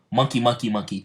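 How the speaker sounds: lightly voiced monkey chant; quick repeated cry, only lightly put on; monkey's battle cry. Imitating Star Monkey's stand cry, lightly chanted. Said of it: "What is his cry".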